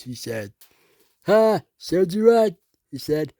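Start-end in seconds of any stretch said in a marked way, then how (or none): 1.3-2.5 gloating. Acted. Gloating at the fallen engine.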